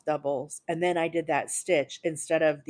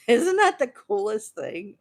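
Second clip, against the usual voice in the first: high, slow, gushing with delight; giddy excitement; 5 semitones higher, 5 dB louder than usual. Real, not acted. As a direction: marvel at it, laughing and thrilled. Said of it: "I'm so excited".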